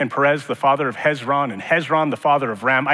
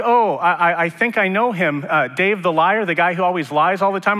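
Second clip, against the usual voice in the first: higher, louder mock surprise of recognition; mock recognizing acquaintance; 5 semitones higher, 4 dB louder than usual. Pastor imitating a friend who recognizes Dave, hammed-up higher voice. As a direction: play the friend who suddenly places him. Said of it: "And someone goes like".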